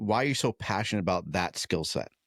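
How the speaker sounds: ordinary talk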